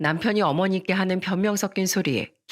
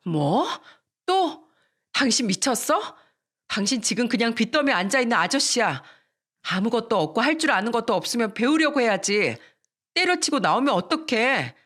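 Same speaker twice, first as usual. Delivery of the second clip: angry wife; 4 semitones higher than usual. Retold or imitated. Wife scolds quitting husband.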